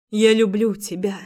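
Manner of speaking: thought aloud. Acted. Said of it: "думала я".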